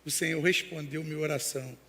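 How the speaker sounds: low, grave retold reply; subdued, sober admission; serious. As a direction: drop the pitch and softly imitate a serious pastor. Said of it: "olhou pra ele sério e falou assim".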